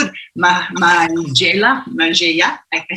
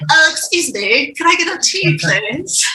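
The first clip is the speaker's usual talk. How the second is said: higher, small hesitant voice asking for tea; timid tea order; 7 semitones higher than usual. Retold or imitated. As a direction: ask shyly like someone nervous at a tea shop. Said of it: "She's like".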